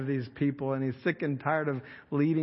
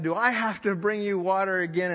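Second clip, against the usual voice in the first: angry Moses; 3 semitones higher than usual. Retold or imitated. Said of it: "Moses was so mad at these rebellious people".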